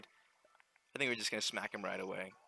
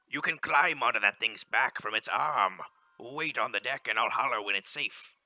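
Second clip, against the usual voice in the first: louder, hearty sea captain reading the in-game lines; ship captain; 5 dB louder than usual. Acted. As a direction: call it out like a captain on deck. Captain gives orders.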